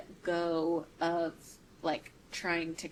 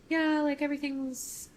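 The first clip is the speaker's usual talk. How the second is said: laid-back; 8 semitones higher, 4 dB louder than usual. Retold or imitated. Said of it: "he's just more laid back".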